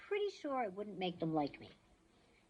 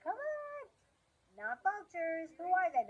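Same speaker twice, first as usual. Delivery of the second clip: excited aside; 11 semitones higher than usual. Real, not acted. Reader breaks off.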